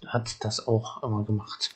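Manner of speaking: hushed whisper, sharing a fond secret; confiding whisper. Acted. Elder confiding to the child about grandmother in a whisper.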